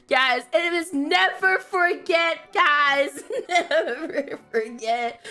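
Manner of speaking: slow, emphatic mock-patriotic reminder; mock solemn. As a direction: draw the slogan out, then crack up. Mock patriotic slogan, breaking up.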